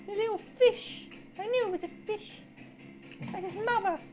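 high, panicked cries while fleeing; scared horror game streamer. Real, not acted. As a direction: panic as it chases you. Chased by monster, panicking.

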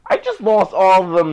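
loud, high cry of dismay; dismayed outcry. Real, not acted. Gamer who just lost all the cells, loud dismay. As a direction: cry out over a sudden loss.

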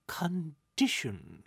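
"condition" drawn out slowly with a falling tune; air-quoted word. A narrator's reading. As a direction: set "condition" apart in mocking quotes. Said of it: "I'm using air quotes when referencing".

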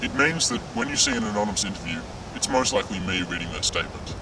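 disguised, altered voice of an anonymous source; anonymous interview voice. Acted. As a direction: speak like a masked interview voice. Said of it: "that's your real voice?".

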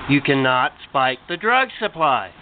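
low, slow, scolding devil. Acted. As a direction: drag it out, low and stern.

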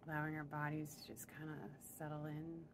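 even, unhurried meditation voice; guided meditation. Real, not acted. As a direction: ease them into stillness, with long pauses. Leads breathing to settle in.

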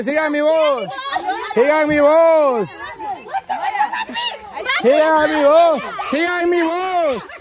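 sustained, insistent guiding call. Real, not acted. Host steering searchers by voice, calling out. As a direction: keep calling so they can follow the sound.

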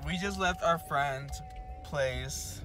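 tipsy voice after a night out. Real, not acted. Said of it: "I feel it in my voice that I'm fucking drunk".

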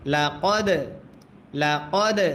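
teacher shows the echoing দ at the end of কদ; qalqala on dal. Shown as a demonstration. Tutor shows students the qalqala on কদ, bouncing the দ. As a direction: bounce the final দ in কদ with a light echo. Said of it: "দালে যদি সাকিন হয় কলকলা করতে হয়".

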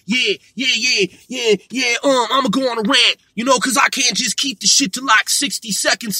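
mocking put-on rapper talk, rambling on; lightly voiced hard-man rant, hurried in bursts; a rapper. Vlogger mocking a man who rambles to sound hard, rapper impression. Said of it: "I'm gonna talk like a rapper".

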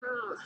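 soft groan of inward disgust; cringing ugh. Acted. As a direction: let out a quiet, cringing ugh. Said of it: "cringing on the inside".

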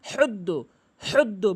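হুদ্দু with strong mid-throat friction; correct ha. Shown as a demonstration. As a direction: repeat হুদ্দু as a drill, throaty "h". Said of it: "বারবার practice করবেন". (হুদ্দু, হলকের মাঝখান থেকে হা)

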